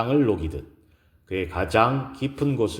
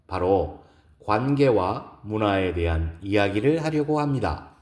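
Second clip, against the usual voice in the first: composed, courteous formal speech opening; lightly voiced lecturer addressing an audience; poised woman lecturer; 4 semitones higher than usual. Gives a lecture in story. (여유롭고 정중한 강연 말투)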